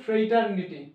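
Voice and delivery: ফ্রেইটারনিটি as "frei-tar-ni-ti"; demonstrated pronunciation. Shown as a demonstration. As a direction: give ফ্রেইটারনিটি a gliding "frei" opening. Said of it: "উচ্চারণ হচ্ছে". (ফ্রেইটারনিটি, শুরুতে "ফ্রেই" স্পষ্ট করে)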